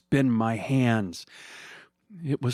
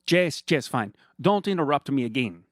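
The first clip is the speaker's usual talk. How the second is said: high, sugary mock-friendly villain voice; a much higher sneering voice, sweetly condescending; smug villain Fernando; 4 semitones higher, 3 dB louder than usual. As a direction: purr at him like a gloating rich villain. Fernando snaps at driver.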